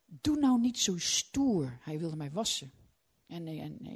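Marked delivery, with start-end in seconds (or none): 0.0-1.8 gentle husband. Retold or imitated. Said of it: "zegt mijn man".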